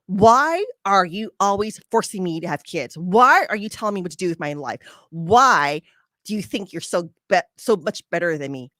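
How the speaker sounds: half-hearted imitation of an angry friend; retold angry outburst. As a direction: replay her attack with mild heat. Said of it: "Janelle flew off the handle, and she attacked me".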